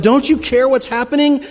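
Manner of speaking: crying out to God. Retold or imitated. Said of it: "cried out to God".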